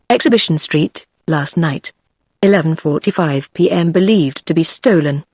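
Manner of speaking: understated official testimony; formal policeman's report; witness-box recital. A narrator's reading. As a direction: recite the details like evidence in court. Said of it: "spoke as though from the witness box".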